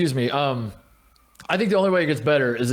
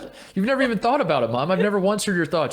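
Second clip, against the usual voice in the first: retold exasperation; 7 semitones higher, faster than usual. Arguing with mom, retold.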